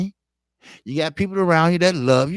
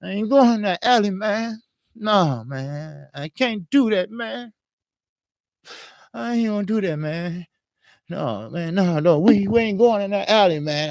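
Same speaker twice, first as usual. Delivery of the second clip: higher, choked pleading man; fighting off tears while begging; holding back tears; 3 semitones higher than usual. Retold or imitated. To the robbers, near tears, higher choked pleading. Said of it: "how you start to get ready to cry".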